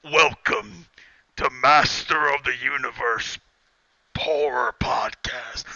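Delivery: spooky horror-host welcome, trailing into a whisper. Pretend. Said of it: "I forgot to do the spooky voice".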